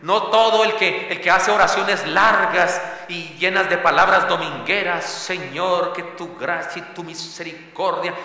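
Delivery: slow, pompous churchy prayer voice; slow mock-pompous praying; mock wordy prayer. Shown as a demonstration. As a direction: parody long Sunday prayers. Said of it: "Una traducción podría ser".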